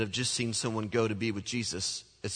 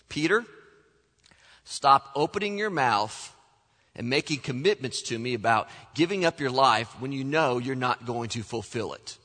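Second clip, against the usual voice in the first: knowing, mildly scolding; a hint of an eyebrow-raised rebuke. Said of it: "Jesus raised an eyebrow at Peter".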